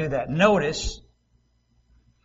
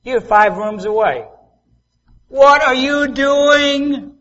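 loud, high, drawn-out mom call; mother calling through five rooms; hollering parental question; 8 semitones higher, 8 dB louder, slower than usual. Retold or imitated. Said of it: "My mother was good about that".

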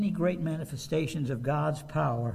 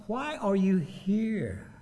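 slow repeated question; 3 semitones higher, much slower than usual. Acted. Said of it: "God said".

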